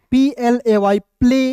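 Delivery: slow spelling, then प्ले said as plei; spelled then said. Shown as a demonstration. Teacher spelling a word out for the class, slowly. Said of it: "एवाई का उच्चारण ए".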